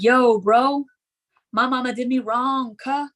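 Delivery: lightly mocked drunk rapper-wannabe voice; a hint of gangsta-rapper swagger; a rapper. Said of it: "she would turn into a rapper".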